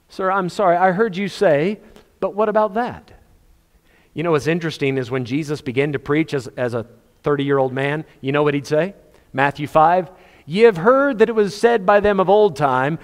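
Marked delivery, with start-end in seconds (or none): 0.1-3.1 put-on polite boy asking. Boy Jesus questioning again. 10.4-13.0 preaching Jesus quote. Acted.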